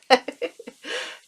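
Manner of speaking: a quick breathy laugh. Real, not acted. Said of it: "holding my breath".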